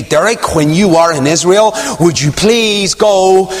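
friend's plea. Retold or imitated. Friend's request retold in sermon.

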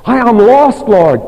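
high, loud pleading cry to the Lord; preacher voicing a repentant sinner's prayer, high and loud. Shown as a demonstration. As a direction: cry it out as a broken sinner begging God.

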